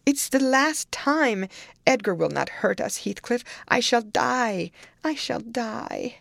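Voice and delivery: high, loud frantic begging; shrieked desperate plea. A narrator's reading. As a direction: beg frantically, drawing out the last cries. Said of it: "she shrieked".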